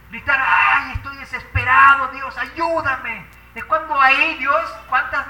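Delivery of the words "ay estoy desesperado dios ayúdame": desperate cry. Acted. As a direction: cry out to God, drawing out the final plea. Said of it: "un grito de desesperación". (grito desesperado, actuado)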